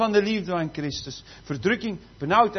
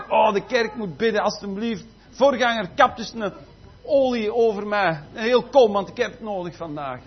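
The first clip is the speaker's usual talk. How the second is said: louder, hammed-up begging through laughs; laughing mock plea; 2 semitones higher, 5 dB louder than usual. Preacher mocking a believer begging the pastor, laughing. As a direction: beg the pastor for oil, laughing.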